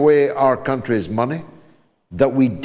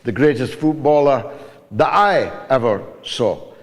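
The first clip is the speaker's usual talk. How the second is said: moved to tears; 6 semitones lower than usual. Real, not acted. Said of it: "You're making me cry".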